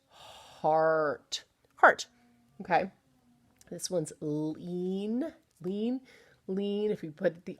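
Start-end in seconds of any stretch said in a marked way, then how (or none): 0.1-2.1 heart with the ar clearly sounded; demo word. Shown as a demonstration. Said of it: "to art".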